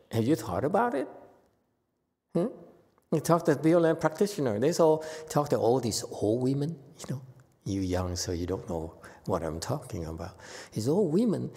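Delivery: ordinary talk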